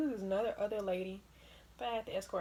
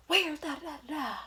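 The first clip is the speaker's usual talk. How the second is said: high, loud lost-passenger question; confused traveler voice; 7 semitones higher, 6 dB louder than usual. Retold or imitated. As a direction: pester the airport worker. Travelers asking for carousel.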